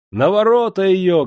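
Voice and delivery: high, loud crowd cry; wailing shout. A narrator's reading. The angry women demand Yulka be hanged, shouting. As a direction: bellow it out for the gate. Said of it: "голосили жонки".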